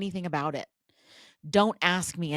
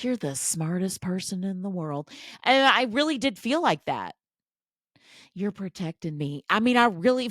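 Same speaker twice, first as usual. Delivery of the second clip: mock housewife; 3 semitones higher than usual. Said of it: "I'd look at him like".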